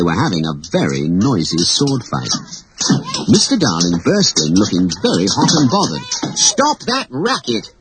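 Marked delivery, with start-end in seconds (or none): 6.4-7.7 a high, slow angry shout; father yelling to stop the noise. Acted. Mister Darling shouts at noisy children to stop. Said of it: "he shouted".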